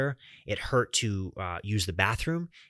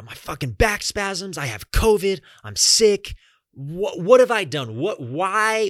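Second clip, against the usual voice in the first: higher and louder, despairing and breaking; anguished outcry; 6 semitones higher, 6 dB louder than usual. Retold or imitated. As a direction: cry out why me in raw pain. Falls in shower, cries to wife.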